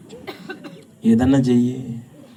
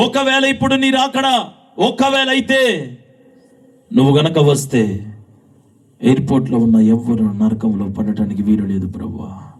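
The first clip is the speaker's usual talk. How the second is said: tearful prayer; 4 dB louder than usual. Retold or imitated. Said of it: "నేను కన్నీళ్లతో ప్రార్థిస్తున్నా".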